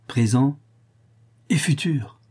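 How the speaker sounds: high, self-satisfied addition; proud. A narrator's reading. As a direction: add it with lifted pitch and pride. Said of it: "ajouta le fou avec fierté".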